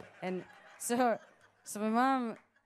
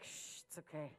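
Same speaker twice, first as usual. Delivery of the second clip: soft, low shushing; mock-soothe her with a hush; quiet, unruffled pretend reassurance; calming her down; 10 semitones lower, 17 dB quieter than usual. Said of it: "to calm her down".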